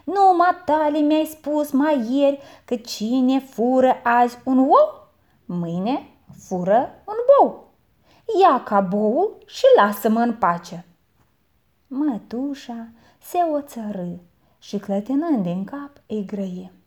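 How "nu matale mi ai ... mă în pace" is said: put-on boy quotes the aunt's own saying back; cheeky boy. A narrator's reading. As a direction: throw her proverb back at her. Boy answers aunt.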